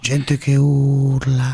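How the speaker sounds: slow, drawn-out politician parody; Prodi. Acted. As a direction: stretch out each word as a weary statesman. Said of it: "scusi, Prodi".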